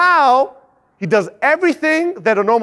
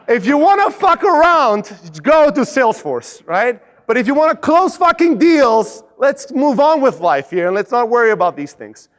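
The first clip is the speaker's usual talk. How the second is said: brash sales push; 2 semitones higher than usual. Retold or imitated. Intern bluntly pushing a stalling prospect, brash. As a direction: push them to stop stalling. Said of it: "he goes".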